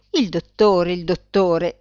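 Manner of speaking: mildly outraged exclamation; exclaiming. A narrator's reading. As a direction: exclaim it twice, pushing the first one. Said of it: "esclamò Astragalo".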